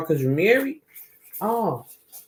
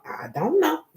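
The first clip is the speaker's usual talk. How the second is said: "I don't know" squeaked up high, much higher; high-pitched I don't know; 11 semitones higher than usual. Real, not acted. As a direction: toss it off in a sudden high squeak. Shrugging off a reading.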